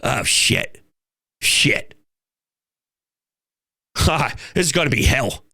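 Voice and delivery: low, hushed oh-no groan; a rival team sensing doom; dread. Retold or imitated. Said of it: "they go".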